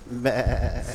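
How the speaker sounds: long, held bleat; imitated mummy sound. Host demonstrating the sound the mummy made, long bleat. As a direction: draw out one dull vowel. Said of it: "That's the sound that they made".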